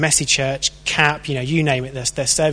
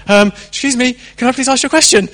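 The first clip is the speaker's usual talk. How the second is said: timid asking; 9 semitones higher, 6 dB louder, faster than usual. Retold or imitated. Rubbish evangelist asking timidly.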